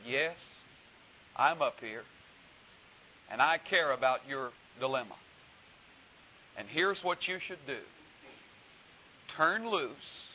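stately voice. Acted. God answers the dangling man, calm and stately. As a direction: speak from heaven, unhurried and stately. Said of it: "a very stately voice from the heavens".

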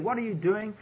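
a touch of frightened complaint to the leader; panicked crying out. Retold or imitated. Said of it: "crying out to Moses and saying".

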